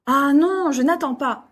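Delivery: brisk exasperated parent; impatient refusal. Acted. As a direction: cut the child off, you're in a hurry. Parent hurrying child to leave.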